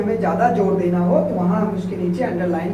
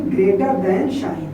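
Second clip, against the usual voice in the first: slow English term; 3 semitones lower, much slower than usual. Shown as a demonstration. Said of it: "इसको बोलते हैं".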